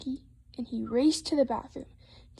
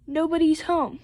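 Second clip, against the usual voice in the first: mild storybook cry of complaint; raised-pitch complaint to mother; 4 semitones higher, 4 dB louder than usual. Acted. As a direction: call it out a little high. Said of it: "cried Froggy".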